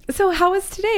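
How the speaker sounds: high, bright-sounding parent voice put on over anger; sing-song mom question. Mom asking daughter after school.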